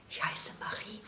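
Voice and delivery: soft unvoiced whisper; shy whispered introduction at the sewing table. A narrator's reading. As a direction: breathe it to the girl beside you. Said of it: "flüsterte sie".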